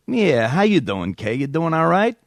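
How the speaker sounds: smarmy New York caller chatting her up; drawn-out opening in a New York accent. Acted. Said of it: "me doing a New York accent".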